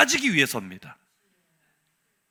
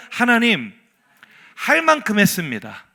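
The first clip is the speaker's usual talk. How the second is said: protest slogan; 4 dB louder than usual. Shown as a demonstration. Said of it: "따라할까요?".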